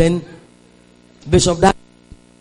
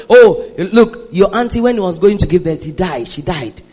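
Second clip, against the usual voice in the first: rising refusal; 4 dB louder than usual. Acted. Voicing Satan, then refusing.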